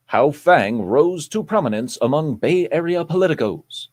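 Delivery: measured anchor-style headline read; news voice. Acted. Host returns to reading the article, news voice. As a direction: announce it like the evening news. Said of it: "You can go back to News Voice now".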